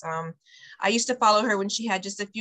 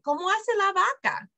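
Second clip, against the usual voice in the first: put-on talking to a toddler; 3 semitones higher than usual. Shown as a demonstration. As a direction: coax a toddler to answer. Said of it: "That means, what does a cow say?".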